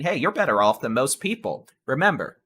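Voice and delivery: talking around a pen in mouth; words round a chewed pen; chewing on a pen. Real, not acted. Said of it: "I'm chewing on a pen".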